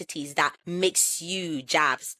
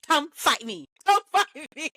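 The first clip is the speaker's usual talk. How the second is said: daring anyone to disagree, half laughing; playful dare; 4 semitones higher than usual. Real, not acted. Podcast host playfully daring listeners to argue. Playful challenge about favourite accent.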